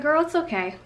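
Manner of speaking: a forced okay through annoyance; annoyed curt reassurance. Retold or imitated. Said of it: "I literally said it exactly like that".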